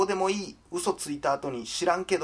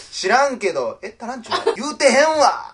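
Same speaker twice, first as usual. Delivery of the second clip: mock indignant retort; 6 semitones higher, 5 dB louder than usual. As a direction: play the offended listener, punch the last words. Acted retort to a misheard joke.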